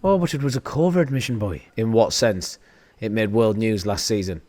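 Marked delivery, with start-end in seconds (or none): 0.0-1.6 put-on Irish accent. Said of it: "Amazon's Irish for some fucking reason".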